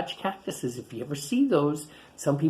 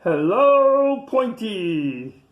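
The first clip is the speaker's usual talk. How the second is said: cheery little greeting; 5 semitones higher, 7 dB louder, much slower than usual. Acted. Tiny greets Pointy.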